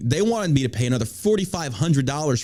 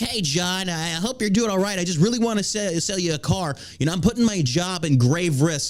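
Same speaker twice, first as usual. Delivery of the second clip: mock salesman; 5 semitones higher than usual. Mimics salesman's pleading text.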